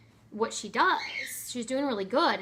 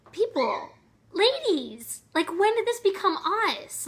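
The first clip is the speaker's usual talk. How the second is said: raised, louder, pleading to the women; exasperated appeal; 8 semitones higher, 5 dB louder than usual. Real, not acted. Vlogger calling out women who resent new babies, exasperated and raised. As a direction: call them out, half pleading.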